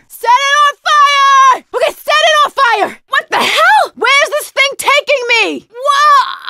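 high, wild yells, adrenaline pumping; frantic shouting. Acted. Adrenaline rush in game fight.

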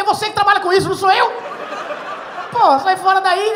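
loud, high-pitched comic outrage; acted heated shouting; indignant protest. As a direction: yell back at the healer, reenacting it. Retelling his quarrel with the healer.

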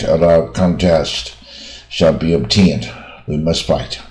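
slow, deliberate English read-aloud. Shown as a demonstration. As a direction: read the long sentence slowly, phrase by phrase. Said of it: "先念一遍吧".

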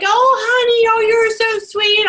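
put-on high, gushing baby talk to a pet. Owner cooing sweetly at her horses in high baby talk. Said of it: "the attitude that comes through".

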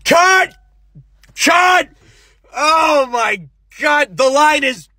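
very high screaming cut; furious director. Acted. Director storms in yelling cut at the actor. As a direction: explode at the actors. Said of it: "a director comes out".

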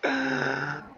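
high, helpless laugh; high-pitched laugh. Real, not acted. Laughing in disbelief at the game.

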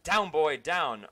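loud sharp command to a dog; shouted command. Acted. Colonel Sanders shouting a command at Sprinkles, loud. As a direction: bark the order down at him. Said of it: "That command shouted by Colonel Sanders".

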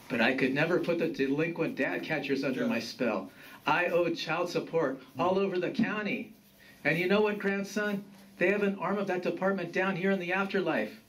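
grumbling grandfather, rising in pitch as he rants; aggrieved grandfather. Acted.

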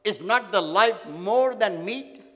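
slow, measured Bible reading; scripture reading. Acted. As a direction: read the verse slowly and solemnly. Preacher reading scripture slowly.

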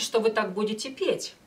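ordinary delivery

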